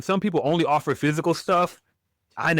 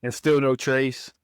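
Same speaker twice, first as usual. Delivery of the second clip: noir detective; slower than usual. Acted. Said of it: "do your best noir voice here".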